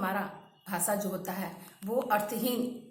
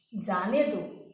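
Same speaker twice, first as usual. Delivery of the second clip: "जाने दो" set apart, dropping lower with a falling end; separate phrase after pause; 4 semitones lower, much slower than usual. Shown as a demonstration. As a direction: let "जाने दो" fall as its own phrase. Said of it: "तब विराम चिन्ह आपका लगा है". ("जाने दो" अलग से, नीचे गिरते स्वर में)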